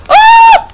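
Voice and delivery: very high loud shriek; startled scream. Real, not acted. Streamer hit in the boss fight, high shriek. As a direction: shriek in sudden fright.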